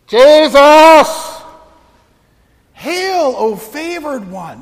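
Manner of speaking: high, booming proclamation; giant voice. Retold or imitated. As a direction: proclaim it through a megaphone. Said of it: "in this giant voice".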